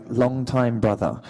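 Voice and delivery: slow, careful attempt at an English accent. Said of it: "help me with an English accent".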